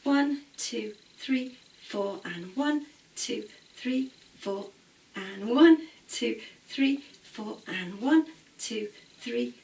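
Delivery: rhythmic counts, "and one" lifted; dance class count. Shown as a demonstration. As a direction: drive the class through the beats. Teacher counting both sides.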